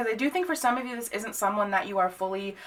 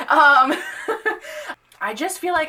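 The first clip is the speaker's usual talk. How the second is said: bursts into a high laugh; 9 semitones higher, 6 dB louder than usual. Real, not acted. Reader laughing at her own blunt advice. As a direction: giggle through the words. Laugh after "where to shove it.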